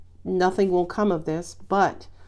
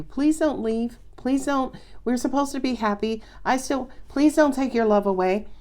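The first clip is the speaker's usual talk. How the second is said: pleading partner; 5 semitones higher than usual. Retold or imitated. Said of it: "them pleading with you".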